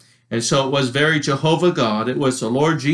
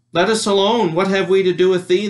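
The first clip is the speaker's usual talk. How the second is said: higher, louder cry of the possessed man; demon crying out; 6 semitones higher, 3 dB louder than usual. A narrator's reading. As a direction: voice the unclean spirit crying out at Jesus. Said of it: "he cried out".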